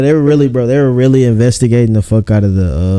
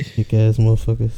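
mock hick voice; 7 dB quieter than usual. Mocking hick voice.

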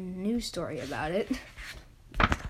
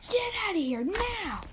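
acted yell; 10 semitones higher than usual. Shopkeeper orders the officer out, high yell. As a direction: yell it in character, pitched right up.

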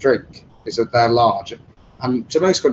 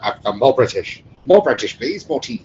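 mock posh British. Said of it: "I was like".

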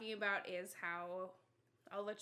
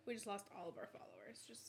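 whispering; 10 dB quieter than usual. Real, not acted. Mock-grim aside after mic noise.

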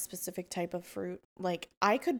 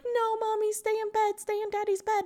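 put-on much higher little-girl voice, insisting; imitating toddler; 14 semitones higher than usual. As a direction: play the bossy toddler, pitched way up. Mother imitates toddler's demand.

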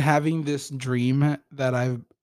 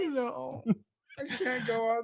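laughing; 9 semitones higher, 6 dB quieter than usual. Real, not acted. Laughing after friend's joke.

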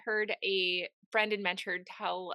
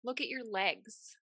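tender God voice. Retold or imitated. God speaks tenderly in dream.

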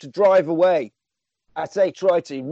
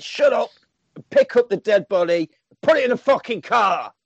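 a raised, snapping order, higher and louder; impatient order; 5 semitones higher, 3 dB louder than usual. Retold or imitated. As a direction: bark at him to shut up and get moving. Gang boss orders reluctant henchman.

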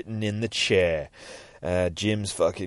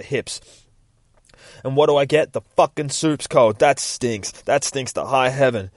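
mock fed-up rant, somewhat raised; acted wifely tirade; 3 semitones higher, 4 dB louder than usual. Wife ranting at husband about her slaving, mock angry tirade. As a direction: let the grievances pile up, mildly indignant.

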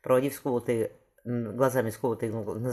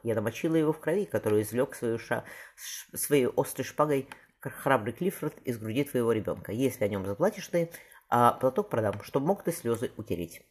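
tragic declamation. Acted. Burbage demonstrates Queen Margaret's speech to Paul, declaiming. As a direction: deliver the tragic verse deliberately. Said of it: "Это трагическая роль".

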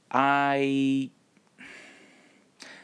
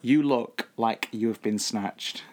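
slow; slower than usual. Shown as a demonstration. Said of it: "The past participle".

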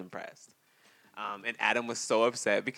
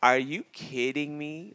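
laughing; 5 semitones higher, 7 dB louder, slower than usual. Real, not acted. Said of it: "I'm struggling".

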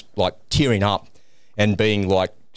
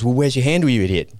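raised, scolding tone; exasperated scolding; 3 semitones higher than usual. Retold or imitated. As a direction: snap at a fool. Instructor scolding, retold.

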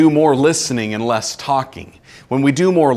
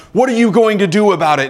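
mock protester demand; 6 semitones higher, 4 dB louder, faster than usual. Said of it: "people were picketing".

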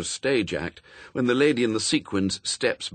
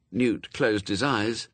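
ordinary delivery, nothing marked

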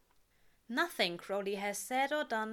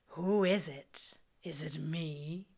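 teasing; 4 semitones lower, slower than usual. A narrator's reading. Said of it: "he teases".

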